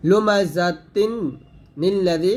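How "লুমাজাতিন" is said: very slow, higher and louder লুমাজাতিন; raised slow Quranic reading; tajweed recitation. Shown as a demonstration. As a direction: chant লুমাজাতিন slowly. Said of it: "ওয়াকফ ধরি লুমাজাত".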